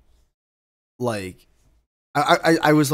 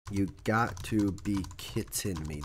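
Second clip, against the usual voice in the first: recalled catchphrase; 5 semitones lower, 11 dB quieter, slower than usual. Shown as a demonstration. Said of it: "Where is that from".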